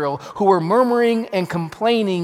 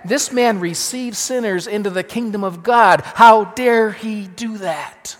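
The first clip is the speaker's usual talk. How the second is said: indignant; 3 semitones higher, 4 dB louder than usual. Retold or imitated. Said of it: "they were saying".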